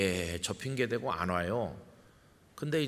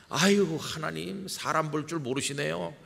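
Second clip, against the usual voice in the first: incredulous scoff; 5 semitones higher than usual. Retold or imitated. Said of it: "어이없다는 듯이 웃으면서 이렇게 말하는 것 같아요".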